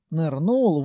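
usual speaking voice

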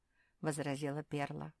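usual speaking voice

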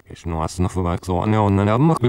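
speech played in reverse; backwards speech. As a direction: voice run backwards on tape. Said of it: "Oder mit anderen Worten".

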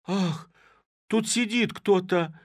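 high, loud frightened cry; scared shout. A narrator's reading. Girls hearing hiccups in the sack, a high frightened shout. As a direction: shriek and run for the door. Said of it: "закричали все и в испуге".

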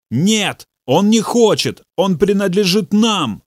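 possessed high shout; shouted in his face. A narrator's reading. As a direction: yell it at the pastor's face. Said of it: "Бобби выкрикнул в лицо Ханку".

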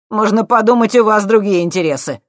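high loud cheeky lad; cocky punk. A narrator's reading. Thief needling the scientists, loud and cocky. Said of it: "сказал он".

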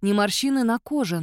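ordinary delivery, nothing marked

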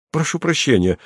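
Mario indignantly objects to being dismissed; exclaiming. A narrator's reading. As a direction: burst out in protest. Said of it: "воскликнул Марио".

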